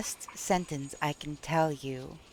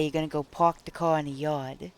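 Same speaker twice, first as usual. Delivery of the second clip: New York accent, park the car in the yard; New York accent demo; 2 semitones lower than usual. Shown as a demonstration. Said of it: "If you're from".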